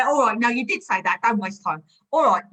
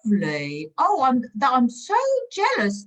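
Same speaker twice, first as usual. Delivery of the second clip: swoops high on oh and jealous; roleplay collector faking excitement over a stamp; mock delight; 5 semitones higher than usual. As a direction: gush with forced envy. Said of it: "let's role play".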